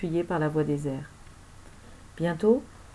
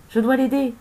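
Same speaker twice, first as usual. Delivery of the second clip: higher-pitched urgent call; 6 semitones higher, 4 dB louder than usual. A narrator's reading. Camille must help her father, urgent parting call. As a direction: call back with desperate resolve. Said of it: "lança-t-elle avant de plonger".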